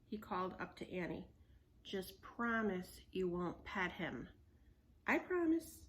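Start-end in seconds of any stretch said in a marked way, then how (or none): 1.8-4.3 stern. Acted. Stern slow demand. 5.1-5.8 put-on high, eager little girl promise. Annie high reply.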